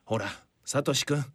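put-on gentle, soothing like to a child; talking to a child. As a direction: reassure him like a little kid. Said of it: "子供扱いするな". (子供をなだめるように優しく)

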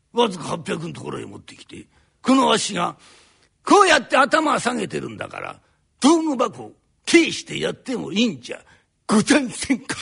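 parrots the plea back in a sneering tone; mocking repeat. Landlord mocking the carpenter's polite plea, sneering parody. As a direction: throw his own words back at him. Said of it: "なんだと？ then repeats the plea".

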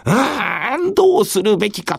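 fretting lord, close to tears; anguished warlord. Acted. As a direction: agonize aloud like a troubled lord. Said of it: "と、信長頭を悩ましてございましたが".

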